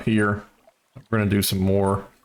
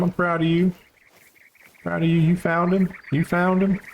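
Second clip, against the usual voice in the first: cutesy high voice; 9 semitones higher than usual. Pretend. Cooing praise to himself.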